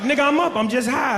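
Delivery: mock-defensive friend snapping awake; lightly voiced high friend protesting; imitating friend. Friend answers, startled awake.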